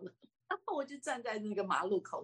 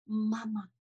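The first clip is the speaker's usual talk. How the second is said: tender call. Shown as a demonstration. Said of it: "我就很温柔的叫了一声".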